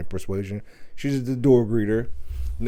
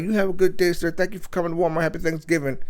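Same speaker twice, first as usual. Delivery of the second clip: nervous polite greeter; 6 semitones higher, faster than usual. Retold or imitated. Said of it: "She was like".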